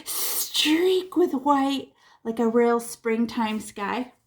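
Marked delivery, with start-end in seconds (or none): 0.0-1.9 streak with white stretched very slowly; drawn out. Shown as a demonstration. Teacher shows students the paint streaking, very slow. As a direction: draw out the word streak like a brushstroke. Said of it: "look, they're gonna go streak".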